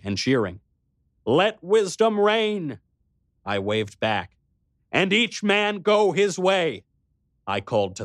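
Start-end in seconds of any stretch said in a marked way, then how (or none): 1.3-2.8 high, slow call to a crowd. Acted. Calling farewell to crowd. 4.9-6.8 high, slow call to a crowd. Acted. Calling farewell to crowd.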